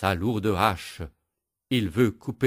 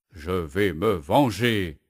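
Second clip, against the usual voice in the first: growling; slower than usual. Acted. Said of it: "grogne et gronde le bûcheron".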